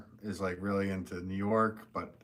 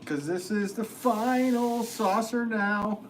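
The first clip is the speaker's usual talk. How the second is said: dorky announcer voice; 12 semitones higher, 4 dB louder, slower than usual. Acted. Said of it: "I just realized how dorky that is".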